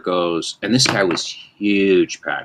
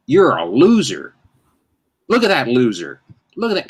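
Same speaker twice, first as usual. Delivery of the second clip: mock yell; 5 semitones higher than usual. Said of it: "I would yell out".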